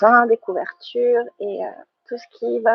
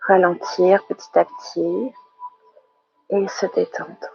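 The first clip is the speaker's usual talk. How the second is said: guided relaxation. Real, not acted. Teacher settling the yoga class into relaxation, calm guided meditation. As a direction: ease them gently into relaxing.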